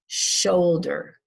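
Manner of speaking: shoulder with a strong SHOUL, falling away; stress on first syllable. Shown as a demonstration. Teacher models shoulder, stressing the first syllable. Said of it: "we stress the first syllable".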